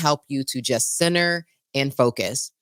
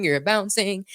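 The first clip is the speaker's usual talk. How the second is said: shaky vibrating voice; 5 semitones higher than usual. Real, not acted. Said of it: "You can hear my voice vibrating".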